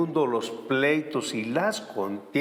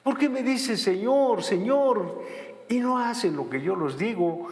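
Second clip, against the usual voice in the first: higher, reproachful questioning; voice of the Lord reproaching; 7 semitones higher than usual. Acted. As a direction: ask it as a grieved Lord. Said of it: "el Señor decía".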